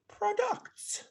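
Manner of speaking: "products" said slowly with an odd, un-Canadian accent. Real, not acted. Podcast host reading a survey stat, stray accent on "products". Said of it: "I put an accent on products".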